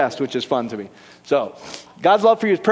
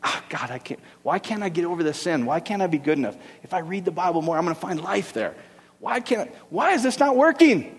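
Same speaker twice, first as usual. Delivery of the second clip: tormented pleading; 5 dB quieter than usual. Retold or imitated. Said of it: "Torment is what it says".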